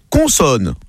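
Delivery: plain Parisian "Consonne"; Parisian accent. Acted. Parisian contestant calling a letter, Parisian accent. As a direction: say "Consonne" with a Parisian nasal first vowel. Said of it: "le Parisien dit".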